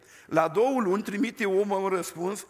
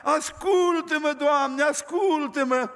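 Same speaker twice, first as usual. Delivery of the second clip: slow, higher tearful plea; weeping prayer; 5 semitones higher, slower than usual. Retold or imitated. Old man begging God for his children, slow tearful plea. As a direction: beg God, voice heavy with tears. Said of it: "Și plângea".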